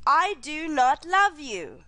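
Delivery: "love" lifted and leaned on, slow; slow, weight on "love"; stress on LOVE. Shown as a demonstration. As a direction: press hard on "love". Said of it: "is different to".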